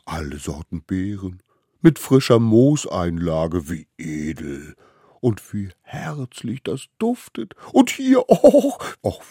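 slow rapture with high, loud squeals of delight; gushing. A narrator's reading. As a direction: marvel at each new treasure. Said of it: "schwärmte es". (verzückt schwärmend, mit Jauchzern)

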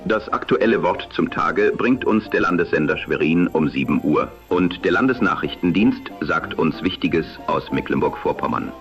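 am radio. Acted. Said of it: "die dem damaligen Sprechstil nahekommt".

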